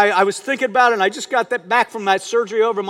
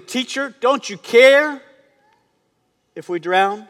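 pleading question; 3 semitones higher, slower than usual. Acted. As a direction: raise the pitch and draw out "care". Disciples' plea in the storm.

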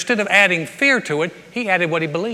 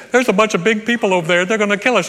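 mock alarm; 4 semitones higher, 5 dB louder, faster than usual. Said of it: "someone says".

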